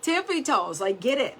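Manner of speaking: high, loud taskmaster command; Monica. Pretend. Coach pretending to stand over you with a stick, bossy. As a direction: order it sharply, standing over them. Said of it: "Monica just standing over you with, like, a stick".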